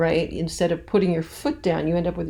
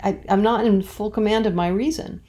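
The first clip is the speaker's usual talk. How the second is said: higher, flustered and halting; perturbed paraphrase; 3 semitones higher than usual. Pretend. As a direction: fumble through it like she's rattled. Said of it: "a character who's a little bit perturbed".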